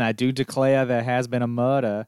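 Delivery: mock genteel Southern accent. Quoting a murder game character, in a Southern accent. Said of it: "using a different Southern accent".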